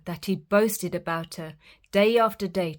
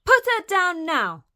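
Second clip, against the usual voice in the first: louder, higher bellowed order; 11 semitones higher, 7 dB louder than usual. Acted. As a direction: bellow the command. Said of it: "bellowed the woodcutter".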